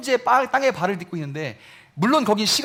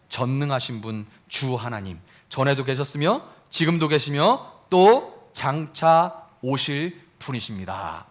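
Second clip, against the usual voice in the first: reverent praise; 5 semitones lower than usual. Acted. Angels' praise continued.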